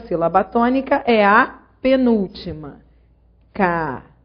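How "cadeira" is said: Cadeira split into ca, dei, ra, with DEI held long; syllable by syllable. Shown as a demonstration. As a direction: sound out "Cadeira" in isolated syllables, stretching dei. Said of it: "vou dividir as sílabas da palavra".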